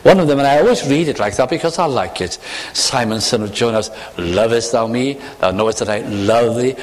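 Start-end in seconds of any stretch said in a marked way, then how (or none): 2.7-6.8 lower, each reply weighted on thou and I; a tender, sentimental reading of the dialogue; sentimental emphasis. Shown as a demonstration. Preacher demonstrating the sweet reading, gently stressed. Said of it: "That emphasis is very lovely".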